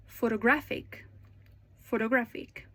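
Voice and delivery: photoGRAPHic, said twice as a model; "photographic" with a clear, strong GRAPH; third-syllable stress. Shown as a demonstration. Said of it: "it's usually louder".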